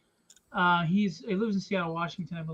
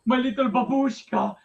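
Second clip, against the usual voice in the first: slow, high, hammed-up doting; gushing baby talk; 5 semitones higher, 6 dB louder, slower than usual. Dad demanding kisses from his daughter, gushing playfully. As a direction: squeeze out each word in exaggerated adoration.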